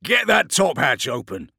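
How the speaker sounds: loud, high military command; shouted order. Acted. Captain ordering hatch opened, shouted order. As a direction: call it urgently across a tank.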